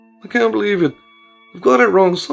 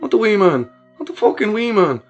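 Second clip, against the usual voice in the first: higher, louder anguished wail; anguished cry; 8 semitones higher, 6 dB louder than usual. Acted. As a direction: cry out in disbelief and grief. Kieran hears brother is dead.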